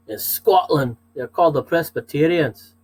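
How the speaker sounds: light attempt at a Scottish accent; a playful hint of Scots accent. Shown as a demonstration. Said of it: "Got to do the accent".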